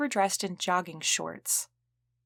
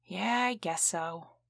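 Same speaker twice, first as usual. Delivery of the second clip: sighing reply; slower than usual. Acted. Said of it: "Donna sighed".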